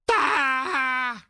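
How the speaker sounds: a sudden high mock outburst cry; short hammed-up yelp of rage; mock berserk shout. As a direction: blurt it out like someone snapping. Mocking the left going berserk.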